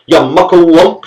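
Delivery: high, loud shrill scolding; shrill cry. A narrator's reading. Mother shrieking at the servant. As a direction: scream at the big servant. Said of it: "she cried shrilly".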